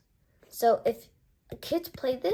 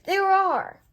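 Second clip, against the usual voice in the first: much higher and louder, falling at the end; astonished confirmation; 9 semitones higher, 7 dB louder than usual. Real, not acted. Reviewer checking the cards again, astonished. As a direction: confirm it in disbelief.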